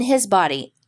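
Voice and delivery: "body" set apart with pointed emphasis; stress on BODY. Shown as a demonstration. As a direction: lean on "body" as if it were a separate thing. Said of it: "and I say it like that".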